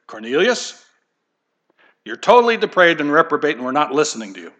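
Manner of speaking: a quick, scornful fake angel's rebuke; the preacher's mock angel scornfully tells off Cornelius; mock harsh angel. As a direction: rattle off the wrong angel line in mock scorn. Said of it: "No, he didn't say that".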